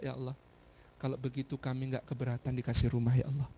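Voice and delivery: low, humble plea to God; earnest, subdued supplication; retold prayer. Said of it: "saya berdoa".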